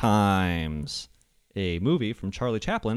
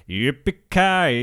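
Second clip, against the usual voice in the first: cowboy call; 2 semitones higher, 4 dB louder, much slower than usual. Pretend. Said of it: "Like the cowboys say".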